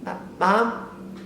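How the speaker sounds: hushed, timid calling; nervous hushed calls to mom; creeping whisper. Retold or imitated. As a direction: sneak up and call her softly. Sneaking up on mom quietly.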